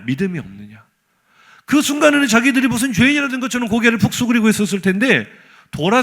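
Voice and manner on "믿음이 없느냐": low, softer scolding echo; quoted scolding, lowered and subdued; imitated rebuke. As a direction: repeat the reproach dropped down low. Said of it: "두 번째 꾸중이 더 화가 나요".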